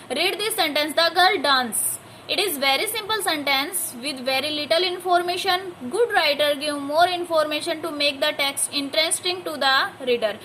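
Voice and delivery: slow, careful read-aloud for a class; slow textbook reading to a class. Shown as a demonstration. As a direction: read each word clearly for pupils. Reads the textbook passage.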